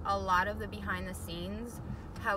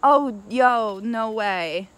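surprised; 14 dB louder, much slower than usual. Real, not acted. Amazed at the spot.

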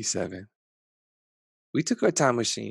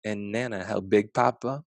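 ordinary delivery

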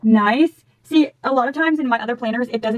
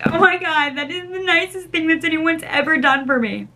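higher-pitched gushing quote; touched amazement; 5 semitones higher than usual. Retold or imitated. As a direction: re-enact being bowled over by a gift. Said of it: "I'm like".

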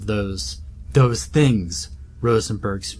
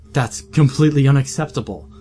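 fast, indignant outburst; a father refusing to give up his son, indignant; indignant cry; 3 semitones higher, 4 dB louder, faster than usual. Acted. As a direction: protest hotly and quickly. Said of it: "cried Abraham".

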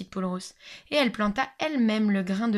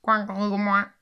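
loud quacking; loud duck quacks; 4 dB louder, slower than usual. Acted. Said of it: "répondirent comme un seul homme".

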